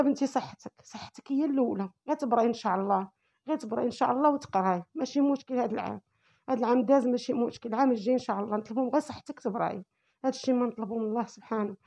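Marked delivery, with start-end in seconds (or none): 0.0-9.8 soft, gentle comforting; reassuring. Retold or imitated. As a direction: soothe her softly. Mother comforting crying daughter. (بصوت حنين ومطمئن)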